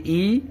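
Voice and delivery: ای said as the zer vowel "i"; ای as a lone "i" vowel. Shown as a demonstration. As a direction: sound out ای as an "i". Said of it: "اس طرح سے کل آپ نے پڑھا".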